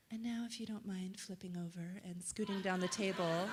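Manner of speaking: hushed spa-therapist murmur. Retold or imitated. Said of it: "in what I call spa voice".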